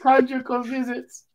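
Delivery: hammed-up Spanish accent, high and laughing; mock Mexican accent. Cartel boss bribing prisoners, in a mocking Mexican accent. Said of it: "You ain't gotta do the accent".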